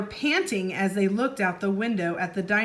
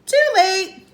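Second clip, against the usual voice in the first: 1 dramatic; 10 semitones higher, 10 dB louder than usual. A narrator's reading. Dramatic narration beat.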